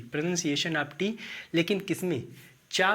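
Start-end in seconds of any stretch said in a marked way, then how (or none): 0.1-1.1 slow with the voice rising on tea; slow, careful. Shown as a demonstration. Teacher repeating the topic slowly for students. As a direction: read it slowly, lifting on tea.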